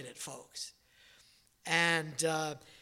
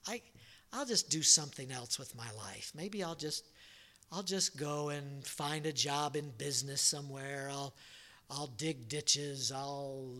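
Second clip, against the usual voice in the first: soft, weary prayer of giving up, quieter and low; despairing prayer; 3 semitones lower, 5 dB quieter than usual. Retold or imitated. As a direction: pray quietly, ready to quit. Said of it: "I sat in there and I thought".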